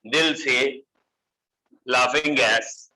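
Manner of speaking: slow, lightly playful mnemonic; funny tone. Shown as a demonstration. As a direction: space out the phrases for a mild funny tone. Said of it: "funny tone में हम इसे कह देते हैं". (हल्के मज़ाकिया अंदाज़ में, धीरे-धीरे)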